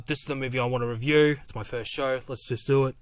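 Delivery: a hint of a bad impression, quick at first; lightly voiced, badly done impression of a co-host; barely altered voice, badly imitating someone; Trip B impression. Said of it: "That's my really bad Ben impression".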